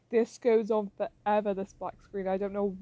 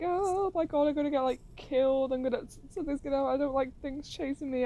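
mock panic; 4 semitones higher than usual. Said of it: "I was a bit like".

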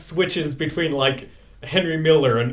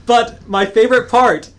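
laughing; 9 semitones higher, 5 dB louder than usual. Real, not acted. Laughing about the book.

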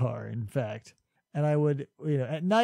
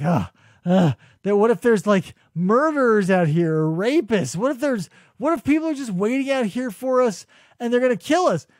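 retold freak-out; 3 semitones higher than usual. Boyfriend quoting his girlfriend in the night car, mock panicky. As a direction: imitate someone wigging out with worry. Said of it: "she starts wigging out".

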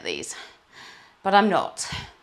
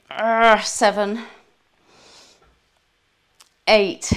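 kettlebell reps; 4 semitones higher, 10 dB louder, much slower than usual. Real, not acted. Counting reps during kettlebell workout.

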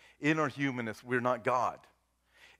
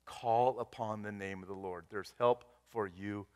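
softer, lower pastoral appeal; gentle reassurance; 3 semitones lower, 5 dB quieter than usual. Real, not acted. Pastor invites congregation to call on God, gently reassuring. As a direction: let the sermon settle into quiet comfort. Gentle close before communion.

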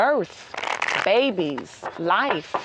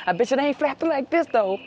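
bragging male bird; 6 semitones higher than usual. Pretend. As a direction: puff up and boast like a strutting male bird.

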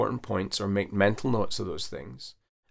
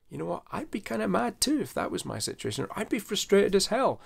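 empathizing reply; 10 semitones higher than usual. Shown as a demonstration. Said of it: "I actually empathize that and I say".

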